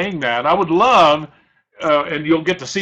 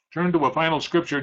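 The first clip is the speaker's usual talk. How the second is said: faster and softer, with a light "Turn"; quick quiet repeat; 4 dB quieter, faster than usual. Shown as a demonstration. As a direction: toss the line off quickly and quietly.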